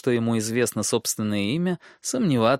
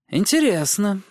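sly dwarf voice; 9 semitones higher, 4 dB louder than usual. Acted. Tyrion muses.

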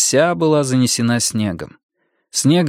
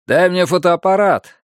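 higher, urgent call to a partner; 7 semitones higher, 3 dB louder than usual. A narrator's reading. Gunnar asking Roger for the camera, calling out. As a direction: call out the demand, pitched up.

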